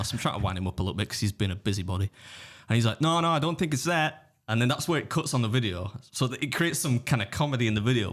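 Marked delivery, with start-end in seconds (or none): 3.0-4.3 high-pitched mock Texan accent; Texas voice. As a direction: imitate the meddling customer in a high Texan twang. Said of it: "this is my Texas voice".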